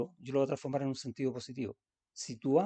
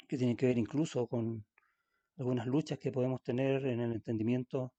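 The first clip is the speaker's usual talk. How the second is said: closing prayer. Acted. Pastor praying to the Lord for the church, earnest. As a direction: pray humbly for the whole congregation.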